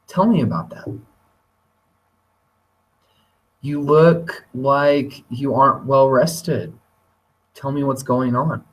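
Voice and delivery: a touch of caring concern; gentle concern. Shown as a demonstration. Teacher to a tired student, gently concerned. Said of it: "a way I could say that is".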